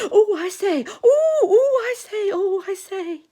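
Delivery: high, flustered exclaiming; Piglet. Acted. Piglet jumping about at the accident, high flustered cries. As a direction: panicky squeals, jumping up and down.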